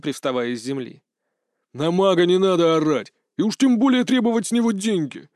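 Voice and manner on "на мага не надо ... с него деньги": hissing rebuke. Acted. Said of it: "зашипел на него Кашрек".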